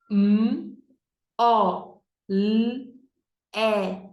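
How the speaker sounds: M, O, L, E as "mmm, ó, lll, é"; letter sounds. Shown as a demonstration. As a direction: sound out each letter, consonants held. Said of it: "fazer o sonzinho das letras". (sonzinho de cada letra: "mmm, ó, lll, é")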